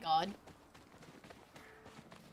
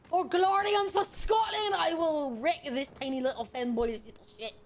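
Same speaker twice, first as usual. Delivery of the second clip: angry Scottish shout. Acted. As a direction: roar it like a Scottish warlord charging. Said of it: "They want me to be Scottish and angry".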